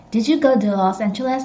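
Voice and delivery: quick, "to" softened to duh; American reduced "to". Shown as a demonstration. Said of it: "kind of like American accent".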